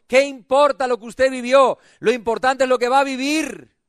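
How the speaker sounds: full-voiced, driving sermon delivery; impassioned preaching. Real, not acted. Preacher rousing a cold church into spring, impassioned preaching. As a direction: preach it, drawing out the phrase endings.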